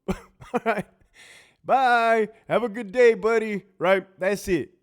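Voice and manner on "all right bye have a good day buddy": loud, high, breezy send-off; mock cheerful goodbye. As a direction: wave him off brightly. Mock friendly farewell to inmate.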